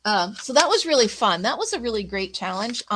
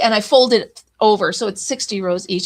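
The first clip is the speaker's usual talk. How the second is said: talking through a yawn; words stretched by a yawn; 6 dB louder than usual. Real, not acted. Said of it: "I don't know why I'm yawning".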